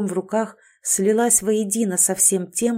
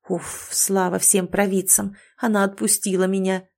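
relieved sigh. Acted. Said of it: "выдохнул несчастный зверёк".

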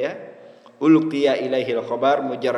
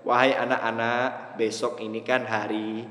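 a lightly voiced teacher talking to the kids, slower and lower; long-winded address; 5 semitones lower, 4 dB quieter than usual. Shown as a demonstration. Teacher announcing to the children, mildly drawn-out and lower. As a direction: drag it out like a wordy teacher announcing. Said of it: "Cukup bilang".

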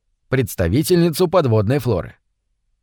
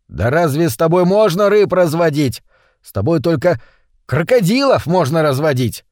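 exasperated, slightly raised voice; mild angry shout; 3 semitones higher than usual. Acted. Митя berates his fish-swallowing friend, mildly exasperated shout. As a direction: scold him, exasperation only lightly raised. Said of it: "крикнул Митя".

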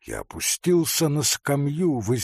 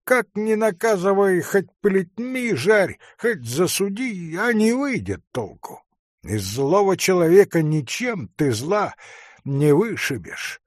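higher, emphatic hunter; hunter's voice; 8 semitones higher, 4 dB louder than usual. A narrator's reading. Hunter answers forester about punishing villains, higher and insistent. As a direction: argue it out high and insistent.

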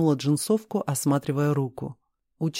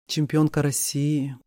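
usual speaking voice

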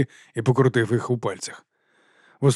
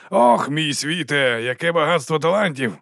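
slow drawn-out mock delight; exclaiming; 4 semitones higher, slower than usual. Cosca praising the terrible musicians, drawn-out delight. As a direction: gush over the talent, slowly. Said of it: "вигукнув він".

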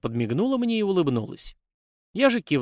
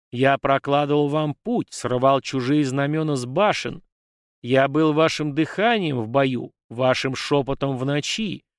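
echoing ethereal energy being. Acted. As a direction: demand it like an ancient offended deity. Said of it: "раздался гулкий голос".

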